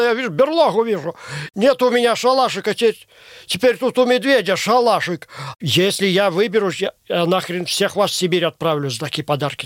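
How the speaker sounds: ordinary talk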